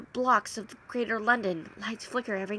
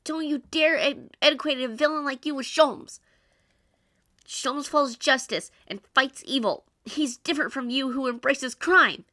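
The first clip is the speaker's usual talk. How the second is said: angry; 3 semitones higher, 5 dB louder than usual. Acted. Protagonist confronts the villain.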